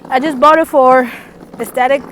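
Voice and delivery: loud, high excited gush. Real, not acted. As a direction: gush about it, laughing. Excited confession about iPad.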